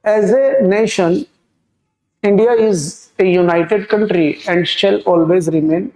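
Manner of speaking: each word read out very slowly for the class; slow dictation reading. Shown as a demonstration. Teacher reading the question sentence to students, very slow and deliberate. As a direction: spell the sentence out slowly so students can follow.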